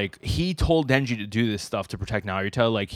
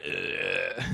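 low-key drawn-out "ugh" imitating a character; disgusted ugh; 3 semitones lower, 9 dB quieter than usual. Imitating his famous face from part two, disgusted groan.

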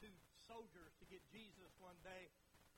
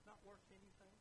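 Jesus. Acted. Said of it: "You think Jesus wasn't hurt sometimes".

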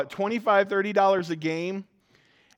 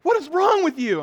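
mock exasperated son; 12 semitones higher, 5 dB louder than usual. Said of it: "He's like".

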